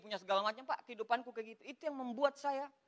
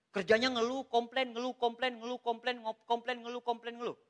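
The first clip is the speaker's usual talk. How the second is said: mocking litany. Mocks people who endlessly complain.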